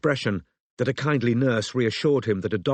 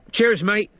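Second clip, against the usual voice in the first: panting; 10 semitones higher, 5 dB louder than usual. A narrator's reading. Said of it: "Strike panted".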